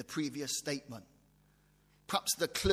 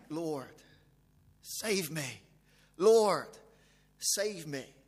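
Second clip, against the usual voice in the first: mock cry for help; much slower than usual. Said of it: "cried out".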